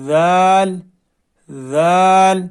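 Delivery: ذال said gently and softly; soft letter. Shown as a demonstration. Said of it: "نرمی سے".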